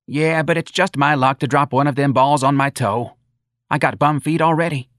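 high-pitched, folksy moaning; complaining older mother. Acted. Mrs. Riley excusing herself from bowling, plaintive. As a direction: moan about your aches in a high voice.

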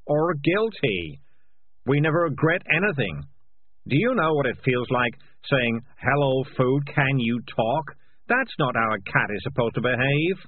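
loud, high, agitated cat confessing; frantic, guilt-ridden cat rant; guilty cat's outburst. Acted. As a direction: blurt it all out defensively, pitch climbing. Morris's agitated outburst continues.

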